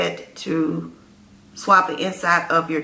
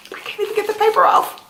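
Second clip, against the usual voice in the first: excited; much faster than usual. Real, not acted. Fumbling with package, overexcited.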